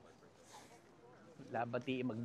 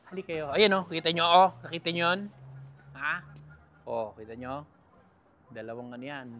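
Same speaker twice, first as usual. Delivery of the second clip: ordinary talk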